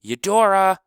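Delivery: loud, high call; boy calling his dog. Acted. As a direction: shout after the lost dog. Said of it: "House called".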